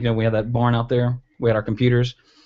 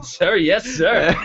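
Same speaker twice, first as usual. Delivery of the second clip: recruit reply; 6 semitones higher, much slower than usual. Pretend. Answers like a recruit, laughing.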